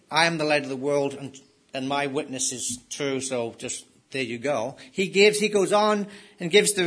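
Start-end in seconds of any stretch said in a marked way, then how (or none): 0.1-4.8 fast, offhand "I am the light of the world", trailing softer; flippant brush-off. Retold or imitated. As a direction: toss it off like it needs no reason. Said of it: "He doesn't just say".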